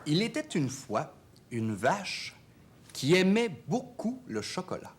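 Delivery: animated storyteller with lively pitch swings; lilting bedtime-tale delivery; storytelling to a child. Acted.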